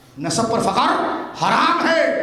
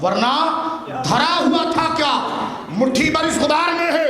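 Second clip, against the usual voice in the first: ringing recitation; 4 semitones higher than usual. Acted. Climax of recited naat verse.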